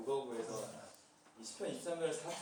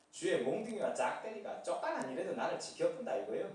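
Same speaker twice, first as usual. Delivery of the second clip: chuckling Jeolla dialect psalm reading; laughing through a Jeolla dialect reading. Pretend. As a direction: Jeolla dialect told with folksy glee. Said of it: "전라도 버전".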